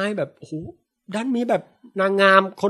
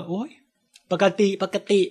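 nonchalant; 3 semitones higher, 3 dB quieter than usual. Retold or imitated. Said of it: "ทุกคนก็บอกว่า".

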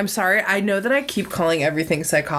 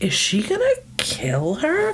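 mock alarm; 10 semitones higher than usual. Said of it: "in a way that I'm like".

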